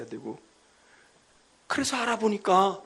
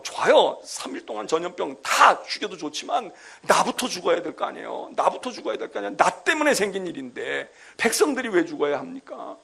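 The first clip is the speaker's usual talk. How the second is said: David arguing back at God, raised and insistent; defiant pleading; 2 semitones higher, 3 dB louder than usual. Acted. David confronting God over the plague, insistent and raised. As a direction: push back at God, pleading but bold. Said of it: "하나님께 대드는 거야".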